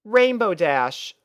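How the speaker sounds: high, gentle pony voice, slowed on the name; a kind pony hiding a worry; Twilight voice. Acted. Twilight answering Rainbow.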